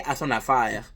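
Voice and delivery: "à son affaire" said the French way; French phrase. Shown as a demonstration. Explaining his girlfriend, he drops into French. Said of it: "in French we say".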